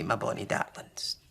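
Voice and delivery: soft, breathy endearment; quiet tender aside. Acted. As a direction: drop to a soft fond murmur. Granny ends softly.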